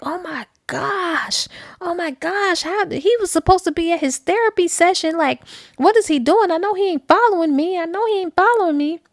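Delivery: a caught wife's frantic babbling; mock panic. Wife caught by her husband, babbling in mock panic.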